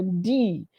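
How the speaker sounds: "D" said very crisply; a crisp, drawn-out "D"; crisp British consonant. Shown as a demonstration. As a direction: demonstrate "D" as a crisp British letter sound. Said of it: "very crisp".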